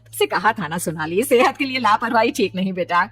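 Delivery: lightly scolding motherly voice; mild maternal reproach; chiding mother. Acted. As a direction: gently tell off your daughter. Mother chiding daughter over milk.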